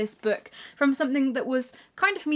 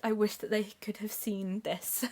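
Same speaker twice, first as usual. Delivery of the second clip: tearful whisper; 5 dB quieter than usual. Real, not acted. Emotional dedication to grandparents.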